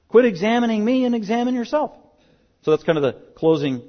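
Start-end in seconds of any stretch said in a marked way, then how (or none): 0.1-1.9 voicing Paul's challenge.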